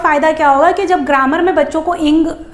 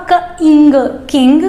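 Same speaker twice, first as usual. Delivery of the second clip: sound blending; 4 dB louder, slower than usual. Shown as a demonstration. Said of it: "तो क्या हुआ".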